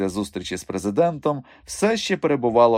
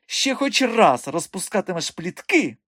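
high, slow scolding; angry threat; 9 semitones higher than usual. A narrator's reading. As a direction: threaten him with each slow word. Madam threatens while slapping him. (гнівна погроза високим голосом)

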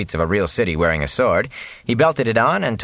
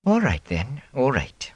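softer, grudging cook voice; a cook giving in, quieter; relenting cook; 6 semitones higher, 3 dB quieter, slower than usual. Acted. Cook grudgingly agreeing, softer.

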